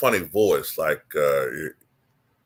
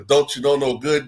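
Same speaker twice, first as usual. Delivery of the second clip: softer Martin Lawrence character. Shown as a demonstration. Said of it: "changing the volume of the voice".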